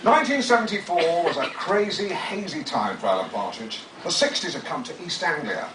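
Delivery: grandly narrated, savouring each phrase; dramatic book reading. Acted. Author reading his memoir to an audience, pompously. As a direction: read it like a pompous audiobook. Reads second book extract.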